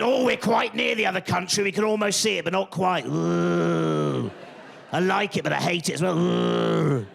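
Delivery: mock longing with drawn-out oohs; torn seaside racist. Seaside racist gazing at the other country, mock torment. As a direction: act torn between liking and hating it.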